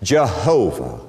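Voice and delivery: slow, climbing "great, great, great I Am"; preaching at full force. Acted. Preaching build.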